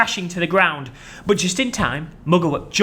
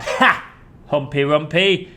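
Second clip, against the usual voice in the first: mocking laugh; slower than usual. Crocodile laughing at Humpy Rumpy. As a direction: laugh him off. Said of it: "laughed out loud".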